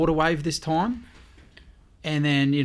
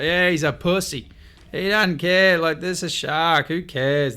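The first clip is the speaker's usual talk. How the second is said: retold scornful dismissal; 3 semitones higher, 4 dB louder than usual. Local mocks scared surfer, retold.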